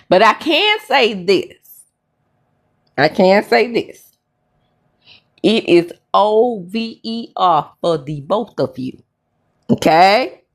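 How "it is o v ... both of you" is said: O V E R spelled out, each letter punched. Shown as a demonstration. Telling the couple it's over, letters spelled out. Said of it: "spells out the word".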